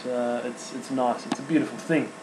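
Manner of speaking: quiet, emotional, choked up; words catching as emotion rises; choking up. Real, not acted. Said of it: "I'm choking up here".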